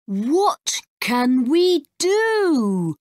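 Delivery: put-on scared boy. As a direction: ask it helplessly. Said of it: "asks Max".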